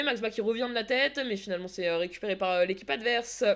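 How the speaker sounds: steady running match commentary; play-by-play commentary. Acted. Commentating her team's match for the stream. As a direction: call the passes as they happen.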